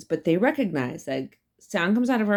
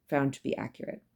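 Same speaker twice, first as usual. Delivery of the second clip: whisper; 6 dB quieter, faster than usual. Real, not acted.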